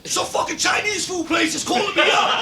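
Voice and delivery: high, indignant imitation; mock outrage. Imitating Mister Watts venting to Spank, mock outrage. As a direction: complain loudly, imitating a fooled victim.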